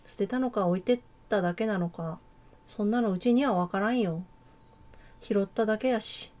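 put-on a light, amateur Kansai accent; casual Kansai-dialect girl, lightly voiced. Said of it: "関西弁風に喋るか。". (軽めの関西弁)

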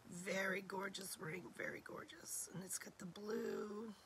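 soft breathy whisper. Real, not acted. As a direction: keep it down to a whisper. Whispering, voice nearly gone.

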